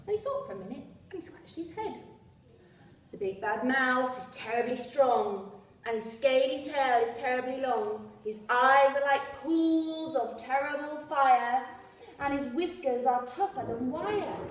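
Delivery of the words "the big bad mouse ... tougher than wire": louder, dramatic scary-story telling; spooky Gruffalo dad. Acted. Gruffalo dad warns his child about the mouse, louder dramatic spooky telling. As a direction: build the monster up to frighten.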